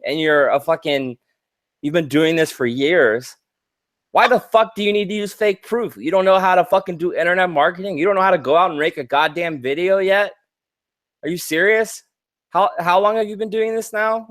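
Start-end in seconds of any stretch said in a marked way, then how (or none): 4.1-14.3 fast, higher-pitched angry questioning; indignant. Real, not acted. Berating experienced marketers who still fake proof, indignant. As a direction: fire off incredulous questions in real exasperation. Indignant rant at veteran scammers.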